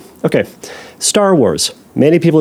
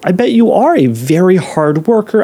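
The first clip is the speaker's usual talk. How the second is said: ordinary delivery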